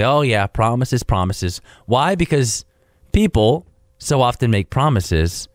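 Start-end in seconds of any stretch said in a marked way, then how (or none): 0.0-1.6 mock the empty promise; sarcastic. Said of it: "kind of sarcastically".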